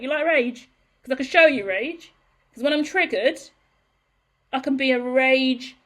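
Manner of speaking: half-joking show of rage; mock threat. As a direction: play up the anger as a boast. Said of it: "I'm exaggerating".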